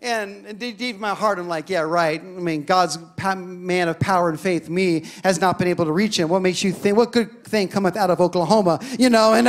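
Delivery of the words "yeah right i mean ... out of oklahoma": sarcastic inner thought. Retold or imitated. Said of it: "that's what I was thinking".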